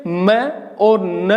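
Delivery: मैं and न set apart, each drawn out; stressed syllables isolated. Shown as a demonstration. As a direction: pick out मैं, then न, as stressed beats. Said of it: "इन पे जोर ज्यादा आता है". (मैं और न को अलग-अलग, खींचकर ज़ोर से दिखाना)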